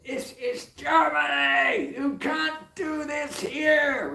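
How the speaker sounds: furious high screaming, slow and drawn out; roaring in anger, very high and loud; angry shout. Retold or imitated. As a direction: bellow it like an enraged kid. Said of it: "bursting, you know, in anger".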